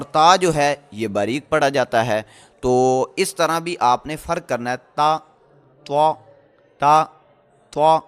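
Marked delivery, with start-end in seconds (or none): 4.9-8.0 تا said thin, توا said heavy and full-mouthed; thin ta versus heavy toa. Shown as a demonstration. Tajweed teacher drills تا and توا for students. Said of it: "تا کو باریک پڑھا ہے ہم نے ... توا ... موٹا پڑھا ہے".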